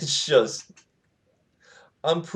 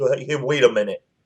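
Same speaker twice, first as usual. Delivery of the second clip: ordinary talk, nothing marked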